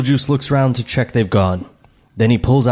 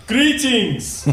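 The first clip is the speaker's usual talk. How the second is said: high, booming stage hail; pompous, drawn-out call of greeting; 10 semitones higher than usual. Acted. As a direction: announce yourself theatrically. Acted greeting of ghostly Hawaiians.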